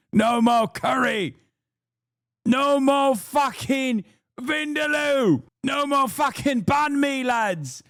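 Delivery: high, slow hammed-up slogan shouting; high slow mock protest chant; mock rally shout. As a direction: bellow it like a marching crowd.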